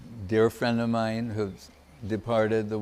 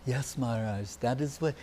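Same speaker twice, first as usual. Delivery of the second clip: very sweetly; 7 dB quieter than usual. Retold or imitated. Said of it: "saying very sweetly".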